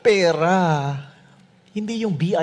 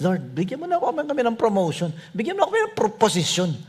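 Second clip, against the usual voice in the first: high-pitched mock pleading; hammed-up high begging; pleading disciples; 8 semitones higher, much faster than usual. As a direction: imitate eager favor-seekers wheedling their boss. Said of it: "were actually asking Jesus".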